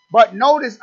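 preacher's attention-getter; emphatic call to attention. Acted. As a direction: grab the congregation with "notice". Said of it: "are you listening now?".

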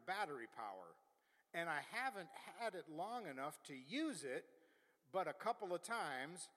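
put-on customer's review in a folksy Southern accent; playful imitation of a Southern accent. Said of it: "say this with a Southern accent".

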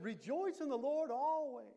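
proclaimed quote. Acted. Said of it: "He said".

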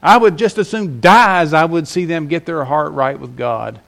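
the preacher voicing Jonah's resentment; bitter resentment. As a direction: say it like a servant who wants no mercy for others. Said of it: "this is the picture".

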